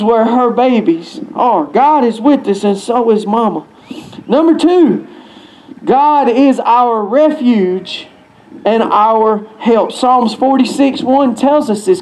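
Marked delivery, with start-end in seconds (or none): 5.8-9.9 slow preaching. Acted. Preaching point slowly.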